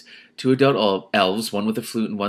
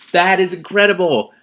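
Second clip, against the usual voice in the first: higher, louder burst of wonder; amazed; 9 semitones higher, 9 dB louder than usual. Real, not acted. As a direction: blurt out your amazement. Reader marvels at the description.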